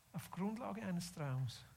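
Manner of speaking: slow, softened delivery for effect; quiet, deliberate, reflective-sounding repeat; hushed emphasis. Real, not acted. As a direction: drop the volume and let it sink in. Repeats the line, now softer.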